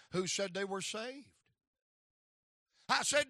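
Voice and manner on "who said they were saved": calm father reply. Retold or imitated. Father answers his son.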